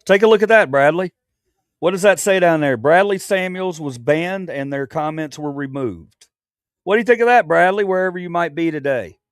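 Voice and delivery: loud, high mocking jeer; gloating taunt. Real, not acted. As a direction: taunt him about the ban. Gloating over banned troll.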